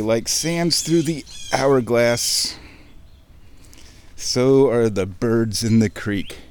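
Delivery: slow, mock-dramatic soap opera narration; lightly hammed daytime drama announcer; soap opera intro. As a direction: ham up the soap opera opening line. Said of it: "It's bird soap opera day".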